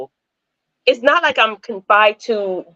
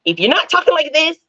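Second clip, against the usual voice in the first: retold insistent stepsister, pitched higher midway; imitating stepsister; 3 semitones higher, faster than usual. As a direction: mimic a stepsister demanding to be copied. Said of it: "I knew how to talk like her".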